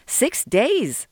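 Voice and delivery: high-pitched disbelieving question; incredulous protest. A narrator's reading. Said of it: "Sol protested".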